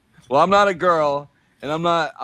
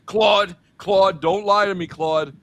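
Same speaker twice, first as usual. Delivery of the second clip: louder, insistent repeated calling of the name; mock Bernie pleading; 4 semitones higher, 5 dB louder, slower than usual. Mocking Bernie calling on the chatbot, loud and insistent. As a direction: nag the chatbot by name over and over, cracking up at the end. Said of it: "And he's like".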